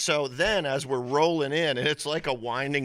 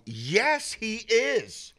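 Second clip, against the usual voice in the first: high, louder mock insistence; adamant, imitated; 12 semitones higher, 4 dB louder, much slower than usual. Buddy insisting to his friend, adamant. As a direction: play a buddy who won't back down. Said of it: "starts getting adamant and going".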